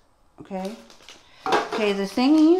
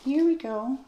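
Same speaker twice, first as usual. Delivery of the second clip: excited; 6 semitones higher than usual. Real, not acted. Finds a rare collectible.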